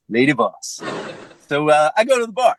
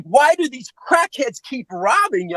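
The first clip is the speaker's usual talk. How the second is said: high, slow, bewildered questioning; high-pitched mock bafflement; baffled woman; 8 semitones higher than usual. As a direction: imitate a naive woman who cannot understand. Lauren's baffled question, imitated.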